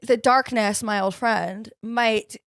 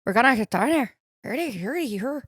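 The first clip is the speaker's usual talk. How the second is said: attempted Irish accent; 3 dB quieter than usual. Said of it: "do an Irish accent".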